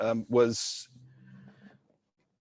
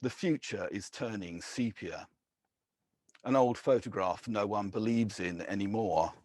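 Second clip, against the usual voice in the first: measured, deliberate poetry reading; poem reading. Acted. Poet reading to a live audience, measured and deliberate. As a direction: let each image land with weighted pauses.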